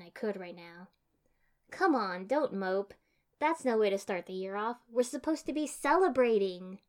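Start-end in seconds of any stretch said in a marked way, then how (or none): 1.7-6.8 coaxing. Acted. Cheering up friends.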